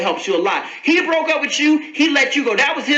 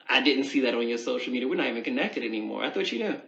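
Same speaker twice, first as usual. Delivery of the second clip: low, soft mock innocence; understated, dropped-voice dig at an ex; petty; 11 semitones lower, 8 dB quieter, faster than usual. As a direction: play dumb with quiet pettiness. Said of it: "Now, that's petty".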